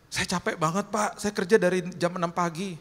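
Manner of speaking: high tearful complaint, acted; imitated crying. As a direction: plead wearily as if crying. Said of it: "Tiba-tiba dia nangis".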